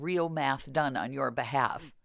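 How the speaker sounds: sly whispered punchline; whispered aside. Acted. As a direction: drop to a whisper for the joke. Sarcastic aside about fake math.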